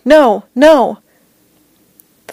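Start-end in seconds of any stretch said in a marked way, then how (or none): 0.1-1.0 high, swooping cry of protest; narrated shout. A narrator's reading. Veteran kicking in his sleep, shouting out. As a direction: cry out higher, as if in a nightmare. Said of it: "he'd kick and shout".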